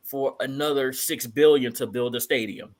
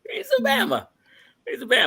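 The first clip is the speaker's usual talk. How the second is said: excited. Real, not acted. Excited repeat of slang.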